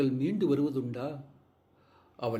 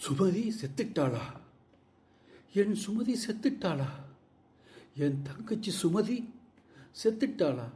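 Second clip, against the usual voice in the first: anguished cries of a grieving brother, pitch leaping on her name; 4 semitones higher than usual. Acted. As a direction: call out to her in shock and disbelief. Brother grieves sister's death.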